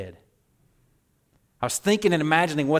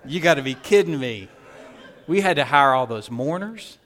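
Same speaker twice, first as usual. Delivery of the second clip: laughing mock scold; 5 dB louder than usual. Martha scolds Mary, laughing.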